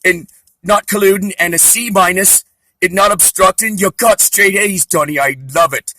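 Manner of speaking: a proud Scottish granny in a Mrs Doubtfire voice. Retold or imitated. Trump's mom doting over his grades, mock Scottish granny. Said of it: "I'm doing Missus Doubtfire".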